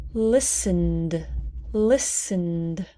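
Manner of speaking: "listened" ending in N straight into D; silent E. Shown as a demonstration. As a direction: say "listened" in two syllables, no "ed" vowel. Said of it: "We do not pronounce that".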